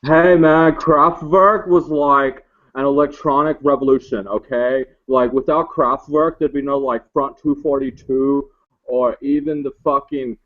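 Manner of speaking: a stoner clerk ranting about his favourite band; lightly voiced stoner in a huff; stoned clerk ranting.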